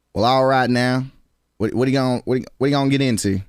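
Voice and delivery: half-hearted country accent. Shown as a demonstration. Streamer trying the requested country accent, feels forced, country accent. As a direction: try out a forced country twang. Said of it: "asked me to do my country accent".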